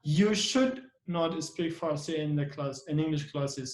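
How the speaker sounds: should given extra weight; stress on should. Shown as a demonstration. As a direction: lean on should, then let it trail down. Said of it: "So we put the stress".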